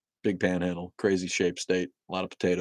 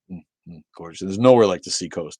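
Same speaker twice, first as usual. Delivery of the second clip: usual speaking voice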